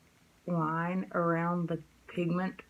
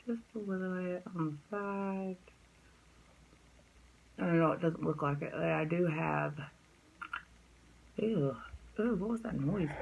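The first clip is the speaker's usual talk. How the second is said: talking while chewing gum; words round a piece of gum. Real, not acted. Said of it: "I have a piece of gum in my mouth".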